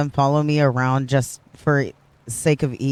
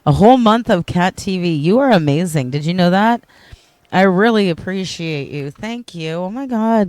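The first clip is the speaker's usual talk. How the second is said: high, loud, thrilled thank-you; real delighted outburst, pitched up; excited gratitude; 5 semitones higher, 8 dB louder than usual. Real, not acted. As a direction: gush with surprise at a loyal viewer. Thanking viewer for watch streak.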